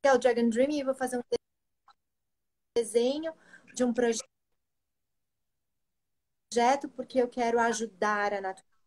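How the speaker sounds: glitchy robotic call breaking up; choppy call audio. Real, not acted. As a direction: voice cutting in and out over a bad connection. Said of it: "Tá falhando muito".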